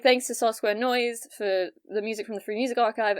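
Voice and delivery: light British affect, lightly put on; slightly British accent. Shown as a demonstration. Podcaster demonstrating the voice dad hated, slightly British accent. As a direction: read the credit with a mild British accent. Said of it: "this is the accent my dad hated".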